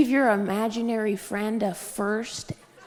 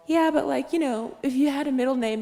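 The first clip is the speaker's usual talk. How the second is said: mom suggesting; 5 semitones higher than usual. Retold or imitated. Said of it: "And my mom's all".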